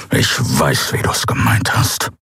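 hissed, voiceless and low. A narrator's reading. Kero hissing back at Endriel's apology. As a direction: hiss it through the teeth. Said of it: "fauchte er".

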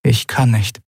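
barely keeping the voice steady; voice almost breaking. Acted. Lien refusing her mother, voice almost breaking. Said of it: "verhindern, dass ihre Stimme brach".

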